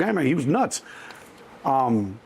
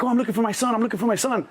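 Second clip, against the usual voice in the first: higher, anxious mom searching for her son; worried mother; 7 semitones higher, faster than usual. Retold or imitated. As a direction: call out for your son, a touch higher. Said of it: "she was like".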